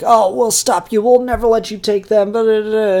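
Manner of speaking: high, loud mock bravado; hammed-up tough talk. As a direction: rattle off a hero's threat, mockingly. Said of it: "Damien's talking all tough".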